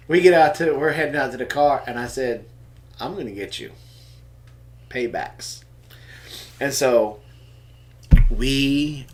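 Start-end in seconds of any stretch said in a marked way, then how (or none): 3.0-5.6 mock threat. Threat to son after visit.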